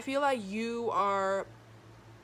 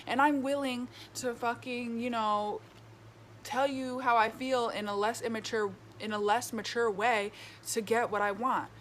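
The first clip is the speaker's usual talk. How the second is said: put-on childish, immature; 2 semitones higher than usual. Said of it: "very childish, immature".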